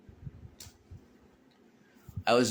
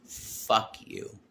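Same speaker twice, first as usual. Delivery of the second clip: whispered fuck you, breathless; hissed curse; 5 dB quieter than usual. Retold or imitated. Refusing her apology on the couch, a whispered curse. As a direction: spit it out under the breath. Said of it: "But I said".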